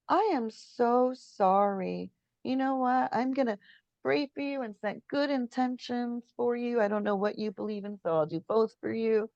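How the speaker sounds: defuse the angry biker gently; calm and kind. Retold or imitated. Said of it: "I'm gonna calmly take this".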